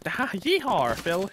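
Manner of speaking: playful Southern yeehaw; jokey American Southern twang; Southern American accent. Shown as a demonstration. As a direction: put on a Southern cowboy accent. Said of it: "I got the Southern part".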